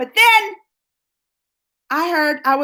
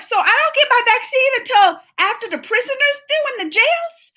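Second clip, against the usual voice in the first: retold anger; 11 semitones higher than usual. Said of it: "So I started getting mad".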